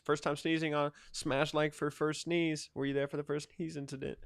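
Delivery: flat, stiff robot voice. Pretend. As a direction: talk like a robot. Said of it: "I don't know why I do that voice".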